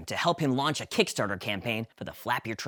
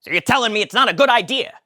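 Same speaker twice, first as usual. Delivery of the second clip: high, quick Kramer; can't believe they don't like it; Kramer surprised; 9 semitones higher, 9 dB louder, faster than usual. Acted. Kramer asks.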